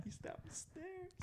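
high wheezing laugh; laughing hard. Real, not acted. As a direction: crack up in helpless laughter. Laughing hard at own joke.

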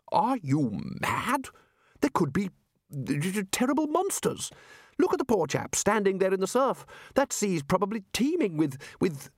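high, stammering mock fear; nervous wizard. Wizard warning Ridcully of sea monsters, hint of stammering fright. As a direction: stutter over the terrible monsters.

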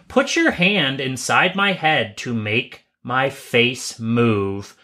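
slow, spooky box-tagline read. Pretend. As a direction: drag it out like a creepy dare. Reading spooky toy box tagline.

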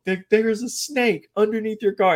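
mock frightened warning. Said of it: "And I'm like".

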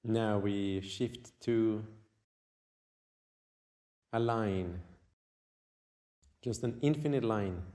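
unhurried meditation guide with long pauses; guided meditation. Acted. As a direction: guide the listener inward, leaving long silences.

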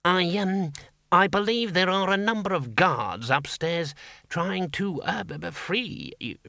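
nervous stammering. A narrator's reading. Priest stammers before the patrician.

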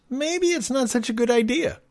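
squeaky second-thoughts voice; sheepish executive voice. Retold or imitated. Company voiced realizing mistake.

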